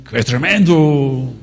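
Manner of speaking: slow mock Castilian Spanish accent; imitating a brother from Spain in a Spanish accent. Preacher quoting a brother from Spain, light Spanish accent. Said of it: "Otro hermano que está aquí de España dice".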